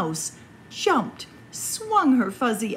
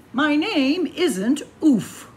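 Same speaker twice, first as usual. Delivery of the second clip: insistent echo; 5 semitones higher, 5 dB louder, slower than usual. Acted. Reader echoes Warren line.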